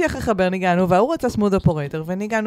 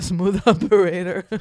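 long drawn-out retold heckle; half-hearted imitation of a drunken yeller; mild mock yell; much slower than usual. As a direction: stretch the title out, barely raising the voice. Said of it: "צעק כל ההופעה".

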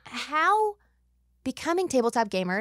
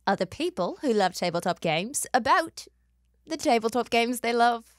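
put-on a shaky Australian accent that slips in and out; podcast intro read in a half-hearted Australian accent; mock Australian accent. Host opening the podcast, in a wobbly Australian accent. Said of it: "I'm really sorry for all the people I've offended".

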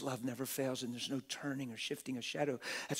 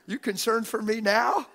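loud, high incredulous question; mock-defiant shout; 9 semitones higher, 11 dB louder than usual. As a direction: shout it like a cheeky challenge. Mock-defiant answer to imagined critics.

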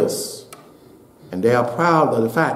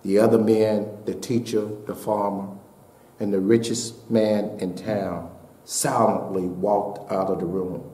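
story narration. Acted. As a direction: draw them in, telling it gently. Sermon illustration told softly.

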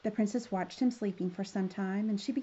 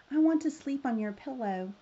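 decided frog, a little higher; storybook frog making up his mind; 4 semitones higher, 4 dB louder than usual. Acted. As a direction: state it as a firm demand. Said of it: "the frog said decidedly".

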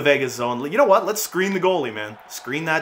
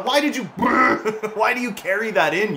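laughing disbelief; 8 semitones higher than usual. Real, not acted. Laughing at teammate blunder.

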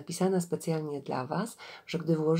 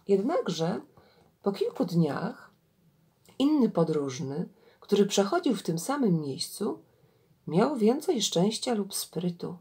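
measured storyteller reading with swelling intonation; story narration. Acted. Gawędziarka reads an Indian fable to listeners, expressive story narration. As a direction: read a fable aloud, deliberately phrased.

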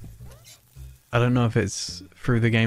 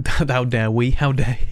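louder, indignant robot; mock-offended robot protest; 3 semitones higher, 5 dB louder than usual. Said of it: "We're a sweet and kind robot".

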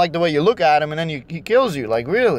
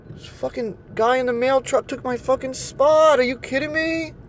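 exasperated disbelief; 5 semitones higher than usual. Real, not acted. Mail truck took his spot.

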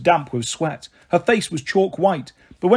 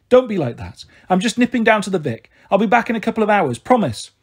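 lightly voiced Marigold, higher and hurrying; placating Marigold; 4 semitones higher than usual. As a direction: placate the children breezily, lightly acted.

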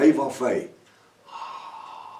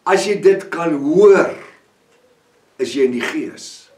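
brother's words. Retold or imitated. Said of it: "soos wat, uh, my broer vir my gesê het".

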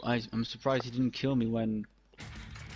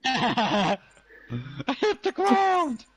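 slow, high laughing echo; laughing disbelief; 10 semitones higher, 4 dB louder, much slower than usual. Real, not acted.

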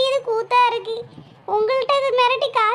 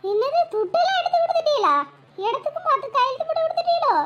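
shocked; 4 semitones higher than usual. Acted. Shocked neighbour hears money given.

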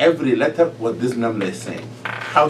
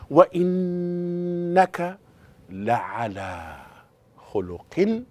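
measured recitation; 3 semitones higher, 4 dB quieter than usual. Shown as a demonstration. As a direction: recite word by word, stretching and pausing. Teacher recites the quoted verse slowly.

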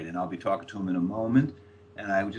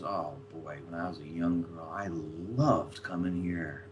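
acted wistful reminiscence; 3 semitones lower, 6 dB quieter than usual. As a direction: reminisce dreamily, imitating a stoned friend. Retelling Linda's stoned reminiscence.

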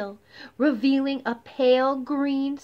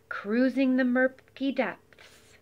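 slow menacing read; slower than usual. A narrator's reading. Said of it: "He's cruising the murky depths".

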